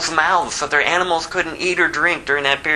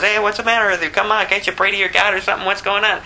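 urgent, slightly raised sailor voice, fast at the end; sailor shaking Jonah awake; 4 semitones higher, faster than usual. Acted. Sailor confronts Jonah asleep during the storm, urgent raised voice. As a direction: push him to wake up and pray.

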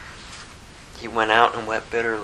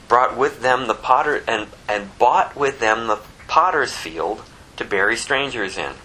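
emphatic pulpit reading with deliberate phrasing; scripture reading; 2 semitones higher than usual. Acted. Reads scripture aloud to congregation.

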